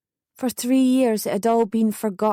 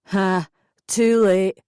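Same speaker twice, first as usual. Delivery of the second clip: laughed; 4 dB louder, much slower than usual. A narrator's reading. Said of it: "he laughed".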